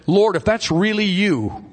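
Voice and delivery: high, pleading call across water; acted-out cry of a doubting disciple; imitated cry. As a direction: call out high, as Peter to Jesus. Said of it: "they screamed out to the Lord".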